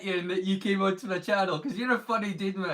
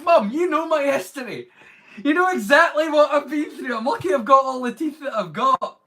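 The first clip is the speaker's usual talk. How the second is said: higher, louder pleading protest; protesting to mum; 8 semitones higher, 9 dB louder than usual. Retold or imitated. Son argues back with mum over his fake tooth, higher and louder. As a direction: insist to mum you've been through a lot.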